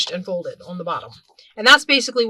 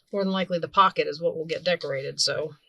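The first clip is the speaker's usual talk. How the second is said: cough drop in mouth; 4 semitones lower than usual. Real, not acted. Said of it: "Sorry, I have a cough drop in my mouth".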